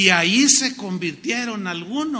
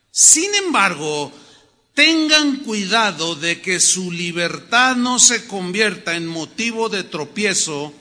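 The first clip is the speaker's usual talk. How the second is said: slow, loud, measured proclamation; emphatic scripture reading; 4 dB louder than usual. Acted. Preacher reading verse eight to the brethren, emphatic reading. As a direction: read it out weightily to a congregation. Reads scripture aloud to congregation.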